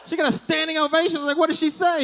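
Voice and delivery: shocked. Retold or imitated. Shocked by friend's news.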